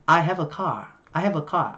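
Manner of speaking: British "car" ending in an open ah; British accent. Shown as a demonstration. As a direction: drop the r in "car", British style. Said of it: "Giọng Anh thì là".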